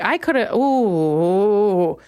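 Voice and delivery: ordinary delivery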